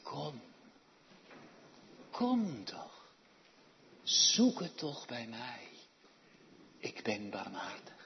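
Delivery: God's hushed coaxing call; gentle divine invitation. Acted. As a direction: coax the sinner home tenderly. Voicing God beckoning.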